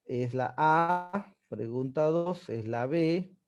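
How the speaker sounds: slow, clear dictation of answers; teacher dictating the answers to the class. Shown as a demonstration. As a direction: read the answers out slowly.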